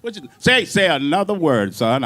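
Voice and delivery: a hint of a gangster dare; mock tough threat. Bandleader threatening his drummer, mock gangster. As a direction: tough street challenge, half-joking. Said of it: "I was like".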